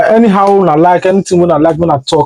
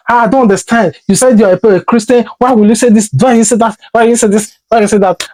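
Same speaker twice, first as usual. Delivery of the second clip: questioning brother; 4 semitones higher, faster than usual. Retold or imitated. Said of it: "my brother who is a minister always called me".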